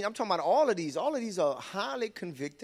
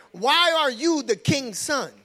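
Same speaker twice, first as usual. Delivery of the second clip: "king's son" slow, high and loud; stress on king's son; 8 semitones higher, 8 dB louder, slower than usual. Shown as a demonstration. Preacher replaying the verse for the church, slow and loud. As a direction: make them hear "king's son" slowly. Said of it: "you hear it now?".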